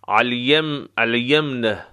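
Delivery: الیمن starting with ع from mid-throat; throaty ayn. Shown as a demonstration. Teacher applying the letter to the word, throaty ayn in الیمن. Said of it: "ع از وسط حلق".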